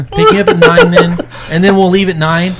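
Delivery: amused loud laughing quote; laughing through it. Retold or imitated. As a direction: laugh while throwing his words back. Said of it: "I'm like".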